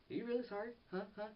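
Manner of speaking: Tony taunting the bad guy, mock-loud; taunting Tony quote. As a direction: jab at him with mocking threats. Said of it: "and he's like".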